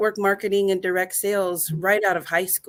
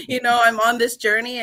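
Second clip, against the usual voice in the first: real tearful laugh, higher and louder; laughing through tears; 4 semitones higher, 5 dB louder than usual. Real, not acted. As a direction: laugh it out while fighting tears. Tearful laugh while thanking community.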